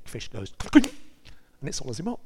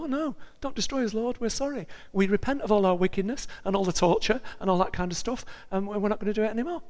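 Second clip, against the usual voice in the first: pleading Ninevites; 7 semitones higher than usual. Retold or imitated.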